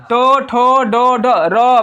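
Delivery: टो, ठो, डो, ढ, र with the tongue striking hard on the palate; retroflex consonants. Shown as a demonstration. Teacher demonstrating the palate strike to pupils, retroflex articulation. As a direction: bang the tongue up on each of टो, ठो, डो, ढ, र. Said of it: "एकदम धमाक से तालु तुम टकरा रहा ना".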